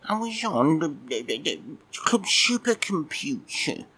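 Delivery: high, squeaky grumpy cat puppet just woken; a sleepy, put-out little puppet admiral; cheeky puppet cat. Acted. Puppet cat grumbling at Mike for waking him, squeaky.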